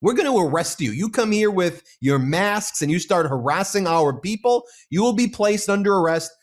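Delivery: quoting a sheriff's warning. Retold or imitated. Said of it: "And here she says".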